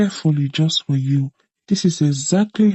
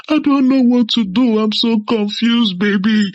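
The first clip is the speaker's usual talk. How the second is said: fake crying; 2 semitones higher than usual. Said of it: "Kalu would start crying and demanding".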